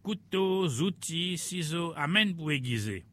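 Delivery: cri de marchand ambulant, voix un peu plus haute; crier sa marchandise. Acted. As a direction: appelle les clients de la ferme, à la criée. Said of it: "il a crié". (le rémouleur crie aux fermiers pour vendre ses services)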